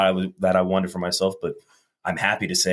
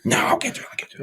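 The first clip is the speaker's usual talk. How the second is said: brushing off; much faster than usual. Retold or imitated. Husband stalling again.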